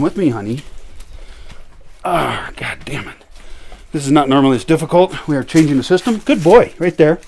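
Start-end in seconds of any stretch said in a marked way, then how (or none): 6.2-7.2 high excited praise. Real, not acted. Praising dog.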